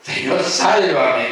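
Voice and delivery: a restrained retelling of a cry for help; mild retold shout. Pedro calls to the Lord for rescue, a mild slow shout. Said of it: "Empezó a los gritos".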